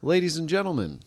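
lightly voiced captain announcement; pilot intercom voice. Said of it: "Let's hear an example".

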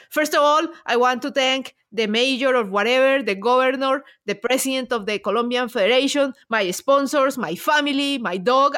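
lightly voiced cyclist thanking everyone; imitating a cyclist's thank-yous. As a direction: list the sponsors like a dutiful cyclist. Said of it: "the Colombian's like".

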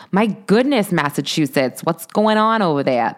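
a clumsy, hammed-up Boston accent; mock Massachusetts accent, only lightly put on; bad Boston accent.

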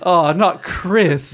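slow, drawn-out mock disappointment; mock dismay. Subjects hearing who is king, slow mock dismay. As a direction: groan it out slowly.

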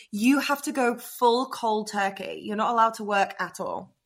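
ordinary talk

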